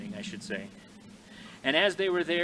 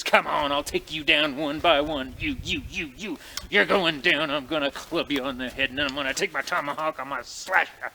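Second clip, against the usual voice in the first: louder, wild fighting taunt; crazed challenge; 3 dB louder than usual. Acted. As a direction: dare them all, half mad. Coulter challenges attacking braves.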